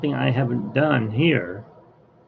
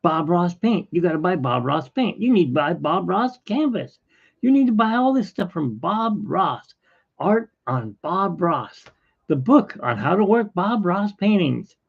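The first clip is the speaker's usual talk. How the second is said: pushy seller; 5 semitones higher than usual. Retold or imitated. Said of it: "She needs that money".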